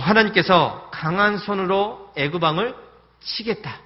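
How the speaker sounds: a bold declaration of God's power; mighty promise. Retold or imitated. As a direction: proclaim it triumphantly.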